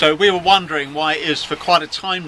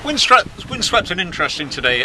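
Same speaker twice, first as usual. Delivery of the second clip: lightly put-on Scots, stretching the opening word; amateur Scots impression of a comedian's catchphrase; Scots accent. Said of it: "my imitation of a Scots accent".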